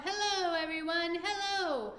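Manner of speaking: high, loud sing-song hello; calling out. A narrator's reading. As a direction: call down cheerfully from the top. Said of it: "laughing and waving and calling out".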